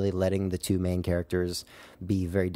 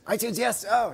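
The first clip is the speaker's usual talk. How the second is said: excited agreement; 12 semitones higher than usual. Real, not acted.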